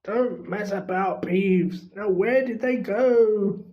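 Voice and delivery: lightly voiced impatient caretaker; gruff caretaker. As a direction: demand an answer, impatient. Filch voiced.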